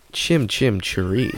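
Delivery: mock Cockney singsong. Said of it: "I'm English".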